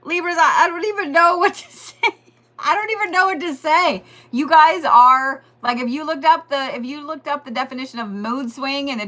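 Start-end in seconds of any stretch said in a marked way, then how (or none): 0.0-4.0 laughing exasperation. Real, not acted.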